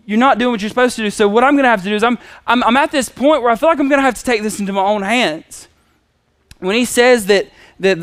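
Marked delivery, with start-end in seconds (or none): 0.1-5.7 higher, fast retort to God; exasperated imitation, pushing the words out quickly; angry Abram. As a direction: call God out, acting fed up. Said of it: "that's some anger".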